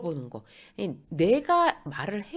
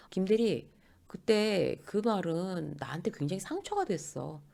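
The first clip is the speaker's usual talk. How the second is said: measured, slower confession of hurt; calm, sincere; 3 dB quieter, slower than usual. Acted. Colleague calmly tells a peer they were hurt, sincere. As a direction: say it evenly, without blame.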